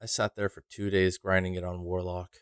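weary, monotone complaint about a long grind; depressed. Real, not acted. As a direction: sound worn down by the grind. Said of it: "don't sound so depressed".

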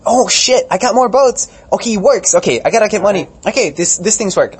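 high, loud, pleading campaign voice; frantic campaigner. Retold or imitated. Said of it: "And then Beto is like".

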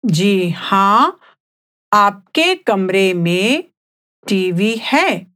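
phrase by phrase, with clear pauses; slightly slowed role-play answer. Shown as a demonstration. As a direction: answer a little slowly for learners. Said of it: "let's speak at a slower pace".

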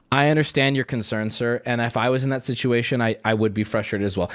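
low, even scripted sympathy; customer service spiel. Retold or imitated. Customer service agent placating angry trash customer, rote sympathy. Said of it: "you get the customer service spiel".

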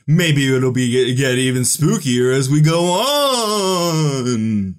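slow, creepy drawn-out voice; spooky voice. Pretend. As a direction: creep it out slowly. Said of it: "very spooky introduction".

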